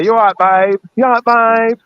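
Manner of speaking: lightly mocked Cockney greeting; Cockney "you all right, babe"; Cockney catchphrase. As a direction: imitate an over-familiar Cockney greeting. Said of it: "when they say".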